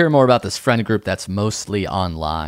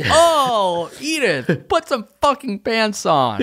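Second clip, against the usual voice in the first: high-pitched mock exasperation; mock-horrified scolding; 10 semitones higher, slower than usual. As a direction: play a scandalized guest scolding her. Acting a guest scolding Edith.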